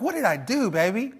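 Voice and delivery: high, pleading mock innocence; hammed-up hurt confusion; bewildered husband. Husband pleading with angry wife.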